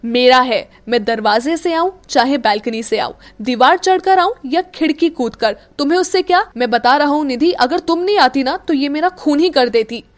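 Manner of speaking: furious and wounded; angry rant. Acted. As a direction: vent at both girls. Akshat rants about Meera.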